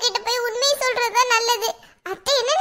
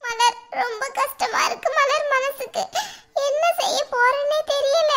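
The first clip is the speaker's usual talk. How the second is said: crying. Acted. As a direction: sob out the distress to a close friend. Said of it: "அழாத பூமாரி". (அழுதுகொண்டே மெதுவாக)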